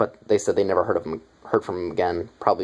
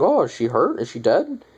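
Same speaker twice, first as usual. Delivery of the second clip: mock concern; 7 semitones higher than usual. Zombies fake concern over Rhonda.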